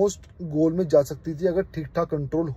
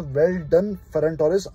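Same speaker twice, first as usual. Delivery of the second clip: slow sincere praise; much slower than usual. Real, not acted. Praising player, slow and deliberate.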